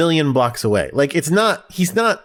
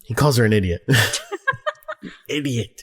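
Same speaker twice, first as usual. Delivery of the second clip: whispered aside. Real, not acted. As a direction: tell the secret under your breath. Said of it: "whispered aside".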